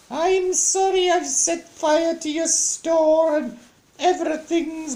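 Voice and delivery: very high falsetto wail, loud and drawn out; Naughty Norman. Acted. Naughty boy confessing to mam about the burnt store, high mock wail. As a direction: wail a hammed-up apology in a piercingly high child's voice. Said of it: "I can just hear him now".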